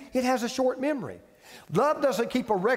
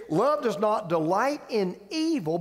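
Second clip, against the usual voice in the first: slow verse reading. Acted.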